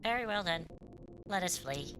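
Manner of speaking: lightly voiced calm android; a hint of a measured robot girl, even and formal; mild android imitation, formal and unhurried; mimicking KOS-MOS. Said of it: "It reminds me of Cosmos".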